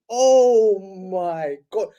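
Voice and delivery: long drawn-out groaning words; slow, exasperated reaction; exasperated disbelief. Retold or imitated. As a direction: stretch it out in mock despair.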